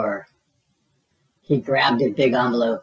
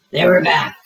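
loud, higher alarmed reveal; dramatic jolt; 5 semitones higher, 7 dB louder than usual. A narrator's reading. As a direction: shout the comeback. Scary reveal.

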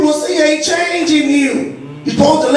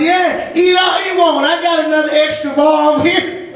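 mock-generous mom; 3 semitones higher than usual. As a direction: push it on him with fake kindness. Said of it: "Mom said".

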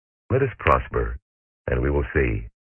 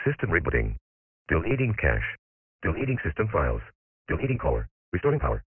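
glitching robot; 5 dB quieter, faster than usual. Acted. Robot system shutdown announcements.

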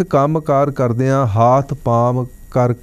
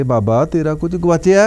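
retold calling out, pitched higher; mildly raised voice; 4 semitones higher than usual. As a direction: lightly mimic asking someone hard of hearing. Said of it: "ਉੱਚੀ ਆਵਾਜ਼ ਵਿੱਚ ਕਹਿਣ ਲੱਗੇ".

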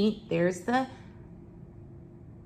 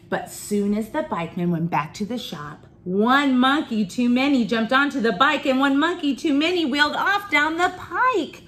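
put-on story reading to children; 3 semitones higher than usual. A narrator's reading. Reader tells children of runaway bike, lively storytelling. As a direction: build the excitement as the line rolls on.

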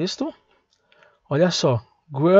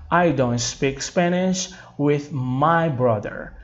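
slow, clear teacher model read; slow model sentence; 4 dB quieter, slower than usual. Shown as a demonstration. Teacher reading slowly so students repeat. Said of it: "Gente, só fazendo isso aqui".

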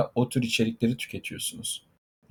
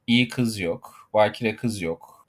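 iyi kız yok, bakire kız yok, each word drawn out slowly and landed with a falling tune; slow emphatic list; 2 semitones lower, slower than usual. Acted. Mocking social media talk to his male audience, slow and emphatic.

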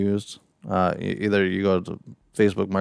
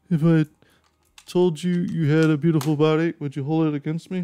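higher, teasing flirty line; smooth pickup line; 6 semitones higher than usual. Pretend. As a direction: lay on the charm.

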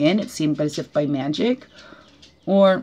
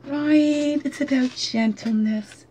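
mock gentle tone; 7 semitones higher, much slower than usual. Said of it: "I don't like the harsh tone".

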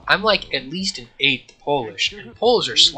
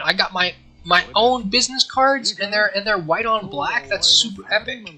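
high, giddy bragging; hammed-up excitement; 8 semitones higher, 4 dB louder than usual. Game character showing off new business cards, hammed-up excitement. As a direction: show off proudly in a raised, excited pitch.

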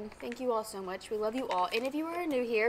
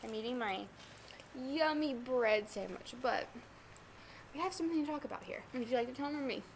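mouth full; 5 dB quieter than usual. Real, not acted. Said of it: "I'm gonna talk with my mouth full".

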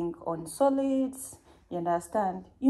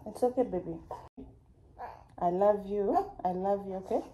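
sweet nothings. Real, not acted. Mother soothing her crying baby.

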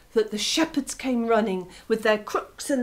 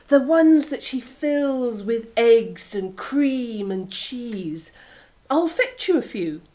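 sly fox; 2 semitones higher than usual. Acted. Fox's voice.

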